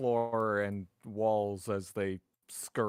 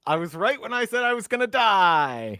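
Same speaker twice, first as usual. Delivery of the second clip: laughing; 10 semitones higher, 10 dB louder than usual. Real, not acted. Laughing at own doom.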